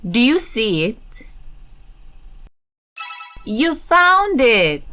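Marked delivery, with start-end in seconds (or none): 3.4-4.8 excited praise. Acted. Praising child's find.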